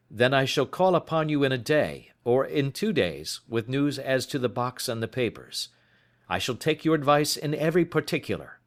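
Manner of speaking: put-on worried young client explaining; young visitor. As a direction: voice the anxious visitor. Openshaw's dialogue voice.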